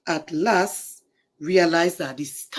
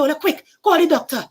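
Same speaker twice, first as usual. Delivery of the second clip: urgent cry; 8 semitones higher, 7 dB louder than usual. Acted. Urgent plea.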